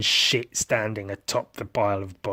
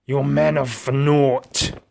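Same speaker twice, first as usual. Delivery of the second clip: gruff hero line; 2 semitones higher, 5 dB louder than usual. Acted. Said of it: "Gun Viking says".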